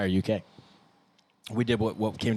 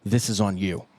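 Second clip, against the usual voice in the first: mock blaming take. Bandmate recording the losing take for fans, mock blaming. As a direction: pretend accusation, emphatic. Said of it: "let me do my alternate take".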